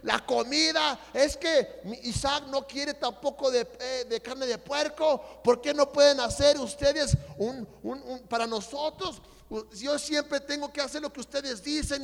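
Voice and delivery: high-pitched, heated complaint; retold yelling. Brothers arguing over pork pozole, retold yelling. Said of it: "estaba yo gritándole".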